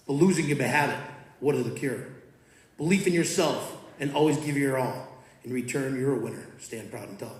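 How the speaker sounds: measured, rhythmic spoken-word delivery; poem recitation. Acted. Coach reciting his poem to the students, rhythmic and measured.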